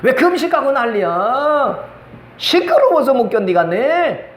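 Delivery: mock grumbling, endings dragged out; slow, exaggerated complaint about the racket; 엘리 제사장. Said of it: "그것도 모르는 엘리 제사장 목사가요". (말끝을 길게 끄는 짜증 연기)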